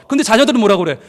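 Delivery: normal talking voice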